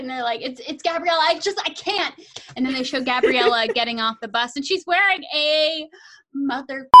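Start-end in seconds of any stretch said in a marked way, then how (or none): 0.4-2.1 melodramatic despair. Retold or imitated. Friends overwhelmed.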